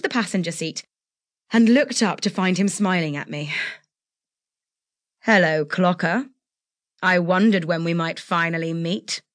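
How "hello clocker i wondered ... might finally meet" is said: low, smooth, menacing reptilian purr; a hint of a cold reptile. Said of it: "That reptilian voice liquefied my guts".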